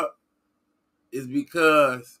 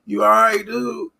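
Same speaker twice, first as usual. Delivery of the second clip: friendly mock reply; 7 semitones higher than usual. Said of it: "I'm supposed to be like".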